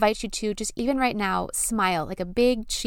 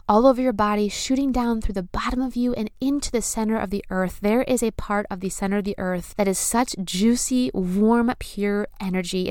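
sultry narrator. Acted. Leads breathing visualization.

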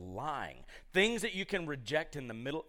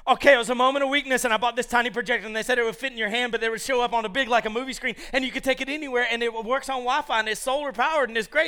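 fast, loud, high-pitched babble; rushed defensive excuse; 7 semitones higher, 9 dB louder, faster than usual. Retold or imitated. Wife explaining projector purchase to husband, hurried mock defensiveness. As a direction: imitate a breathless run of justifications.

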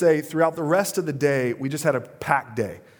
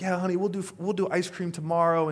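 deflecting dad; 6 semitones higher than usual. Retold or imitated. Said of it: "again, I'm deflecting".

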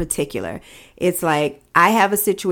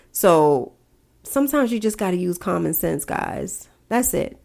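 stuffy nose, nasal voice. Real, not acted. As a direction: talk through a blocked nose. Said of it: "my nasally voice".

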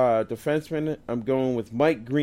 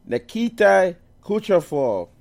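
put-on higher, louder voice on the name; changed voice; 6 semitones higher, 5 dB louder than usual. Real, not acted. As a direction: lift the name into a different voice. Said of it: "I changed my voice when I'm saying it".

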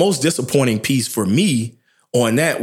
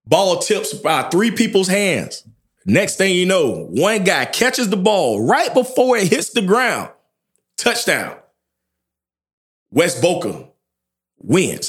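higher, slow and breathless with suspense; excited play-by-play; 8 semitones higher, slower than usual. Retold or imitated. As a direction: call the final play like it's live. Retelling last play of game.

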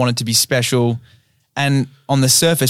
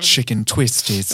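slow mock ASMR delivery; playful ASMR snack tease; 2 semitones lower, slower than usual. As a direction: draw it out like an ASMR clip. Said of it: "He fucking loves A S M R".

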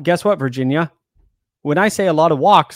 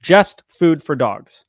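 slow, punchy hype slogan; wrestling promo; 4 dB louder, much slower than usual. Pretend. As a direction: announce the brand like a wrestler. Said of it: "I'm gonna do a real promo".

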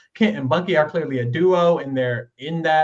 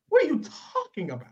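mock quote; 9 semitones higher, 4 dB quieter, faster than usual. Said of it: "And she was like".

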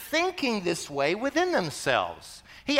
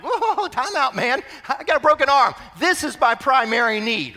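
mock protest; 2 semitones higher, 4 dB louder than usual. Patient with broken arm objects to doctor, mock indignation.

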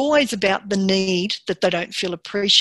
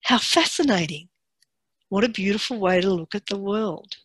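calm, pleased marvelling; delighted curiosity. Retold or imitated. Conductor greeting a mistake with gentle delighted curiosity. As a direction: savour the mistake with wonder. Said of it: "he would go".

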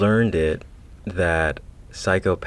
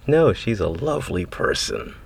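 demon voice. Acted. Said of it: "you used your demon voice right at the end".

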